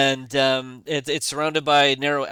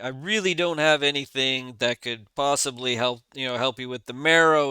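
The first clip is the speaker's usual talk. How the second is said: mildly raised, put-on public voice; speaking very loudly; 3 dB louder than usual. Dwarf denies having help against the Marrow, mildly loud. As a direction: speak up a little, as if for others to hear. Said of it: "he starts speaking very loudly".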